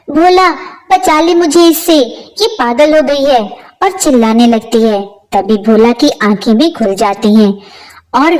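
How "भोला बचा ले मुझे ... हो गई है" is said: pained cry for help. Acted. Mother, hair pulled, cries to her son for help in pain. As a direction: call out to your son in pain, pleading. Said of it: "दर्द से चिल्लाने लगती है".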